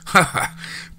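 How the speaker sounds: a short airy chuckle; breathy chuckle. A narrator's reading. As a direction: chuckle under your breath. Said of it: "Charlie chuckled".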